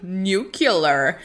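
laughing, lightly voiced Homer Simpson saying "Nuclear"; a hint of Homer's "Nuclear", through laughter; bad Homer Simpson. Mocking the nuclear family with a Homer joke, lightly voiced Homer through laughter. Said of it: "That was a really bad accent".

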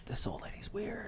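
hushed, whispered gossip; retold whisper. Movie characters whispering about the old lady, whispered. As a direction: whisper it like a secret aside. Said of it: "like, they're whispering about it".

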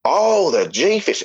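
drawn-out, high swooping "oh"; slow, knowing retold exclamation; mock dawning realization. Acts out realizing the code.

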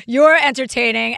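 thick Brooklyn accent, punchy and loud. Shown as a demonstration. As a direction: hit it like a New Yorker. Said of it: "That's my Brooklyn accent".

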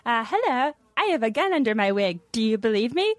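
lightly voiced coworker character; Nick Hansen. Sketch murderer goes table to table, light coworker impression. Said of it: "I would be just Nick".

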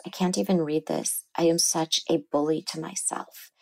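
quietly voicing the crying patient; soft, pained, understated tears; retold crying, softly. Therapist retells a patient crying over her notes, softly. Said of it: "And she's crying and she says".

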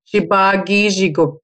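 "Shiba Giji Guk" joined up, shee-bah gee-zhee-gook; name pronunciation demo. Shown as a demonstration. Guest models "Shiba Giji Guk" whole, pronunciation demo. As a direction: put "Shiba Giji Guk" together, falling at the end. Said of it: "I'll put in syllables".

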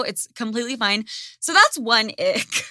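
normal talking voice

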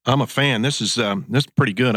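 talking with a mouth full of food; mumbling through a mouthful of cream stick. Real, not acted. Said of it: "I'm talking with my mouth full".

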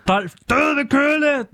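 high, drawn-out cartoon catchphrase; Dolph. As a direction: belt out the hippo's catchphrase, stretched and high. Mimicking the Dolph catchphrase afterwards. (høj, langtrukken efterligning af Dolph)

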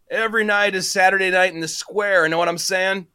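lightly voiced stoner dealer; lazy hint of a stoner; stoner drawl. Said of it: "washed-out stoner drawl".

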